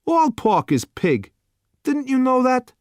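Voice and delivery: bored waiter pushing the last dish; gruff waiter. A narrator's reading. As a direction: waiter to customer, impatient put-on voice. Waiter blunt.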